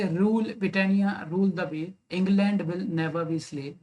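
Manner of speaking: slow, measured verse recital; recited couplet. Shown as a demonstration. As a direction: read the lines slowly, savouring the meter.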